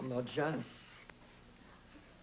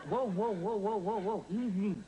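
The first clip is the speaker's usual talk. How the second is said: calming whoa; 7 semitones higher, 3 dB louder than usual. Acted. Calming an eager woman down.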